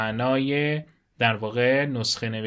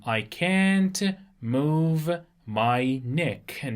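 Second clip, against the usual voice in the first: very slow, at the usual pitch, stretching every word; very slow repeat; 2 semitones higher, much slower than usual. Shown as a demonstration. Teacher repeating the sentence very slowly before explaining neck. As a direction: repeat it even slower so they catch each word. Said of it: "neck به معنای".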